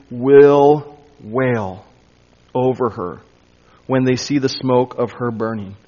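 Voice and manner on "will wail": "will wail" punched louder, dropping low; emphatic will wail. Shown as a demonstration. Preacher stresses the Greek emphasis for the congregation, emphatic and loud. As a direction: hit "will wail" hard like it's underlined. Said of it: "Emphatic in the Greek".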